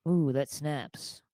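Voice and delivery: slow, smug fedora guy; nasal smug neckbeard. Retold or imitated. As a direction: drawl it like a bar know-it-all. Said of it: "the cool fedora guy in the bar".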